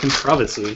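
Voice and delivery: "controversy" pronounced the British way. Saying the word controversy the way British people say it: British accent on controversy. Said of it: "That's how British people say it".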